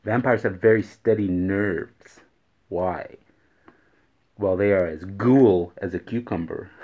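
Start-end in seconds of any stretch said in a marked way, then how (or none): 4.4-6.7 ghoul said with a clear g, not cool. Shown as a demonstration. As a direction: sound ghoul apart from cool. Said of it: "Not as cool".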